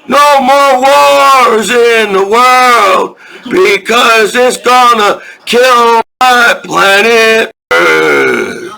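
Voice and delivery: slow, drawn-out shouted plea; slow pleading shout. Real, not acted. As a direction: beg the world to stop the wars, slowly. Pleading against war.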